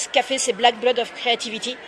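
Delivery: quoting in English with a heavy French accent; poor English accent. Shown as a demonstration. Author quoting a singer in a heavy French English accent. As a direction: read the English quote with a clumsy French accent. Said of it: "Mon accent anglais est nul".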